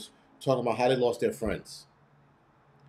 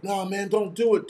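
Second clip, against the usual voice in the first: distant call; 6 semitones higher than usual. Retold or imitated. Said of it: "from a long distance away".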